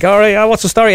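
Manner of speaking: trying out a Dubliner impression; Jerry. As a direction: put on a high Dublin voice. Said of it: "when I was doing Jerry".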